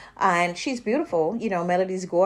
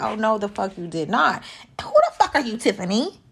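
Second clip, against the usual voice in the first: mock outrage; 3 dB louder than usual.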